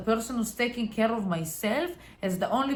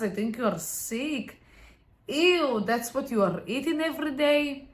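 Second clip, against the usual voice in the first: mocking sneer. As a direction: belittle them to feel better. Partner mocks the dieting partner.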